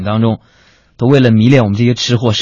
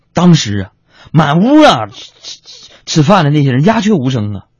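usual speaking voice

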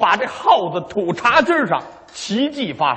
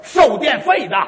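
meter reader; 7 semitones higher, 4 dB louder than usual. Acted. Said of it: "当当当".

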